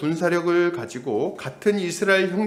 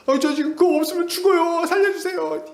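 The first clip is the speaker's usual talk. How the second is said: much higher, desperate begging, imitating the victim; pleading for mercy; 13 semitones higher, 4 dB louder than usual. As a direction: beg for your life in a thin voice. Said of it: "이렇게 얘기하는 거예요".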